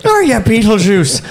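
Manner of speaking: put-on high, laughing parody of a Hawaiian accent; mock Hawaiian accent. Game master mocks his own Hawaiian accent. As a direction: send up the accent while cracking up. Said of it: "I'm clearly from Hawaii".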